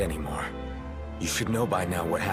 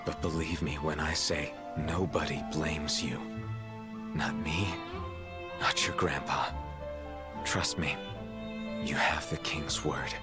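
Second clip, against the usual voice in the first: gentle reassurance. Acted. King comforts someone who blames themselves, gentle reassurance.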